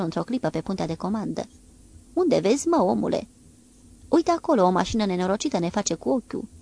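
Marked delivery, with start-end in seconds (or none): 2.1-3.3 excited question. Acted. Marinari surprinși pe punte. 4.1-6.5 excited pointing. Acted. Marinarul arată mașina.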